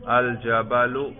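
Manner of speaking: الجبل ending in a clear -u, "al-jabalu"; pronounced case ending. Shown as a demonstration. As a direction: draw out الجبل slowly, sounding the final -u. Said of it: "تلفظ کر کے دکھائیے".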